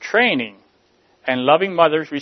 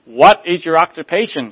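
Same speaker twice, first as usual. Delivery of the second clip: probing clerk; 4 semitones higher, 9 dB louder than usual. Acted. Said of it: "she probed".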